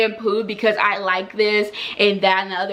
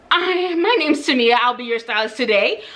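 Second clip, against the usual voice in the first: mock-chirpy salon greeting with a laugh; overly polite; 3 semitones higher than usual. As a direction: stylist introducing herself too sweetly. Sarcastic polite intro to rude client.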